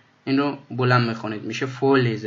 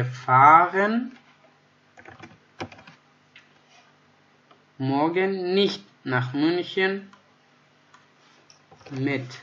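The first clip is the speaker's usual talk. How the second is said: slow model reading; 4 semitones higher, much slower than usual. Shown as a demonstration. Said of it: "teacher reads example sentence".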